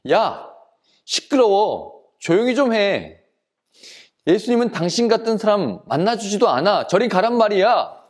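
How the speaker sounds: mildly angry storyteller's telling-off; mock scolding. Crowd to shouting blind man, angry scolding. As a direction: shoo away a noisy nuisance, lightly acted. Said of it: "사람들이 야단을 쳤어요".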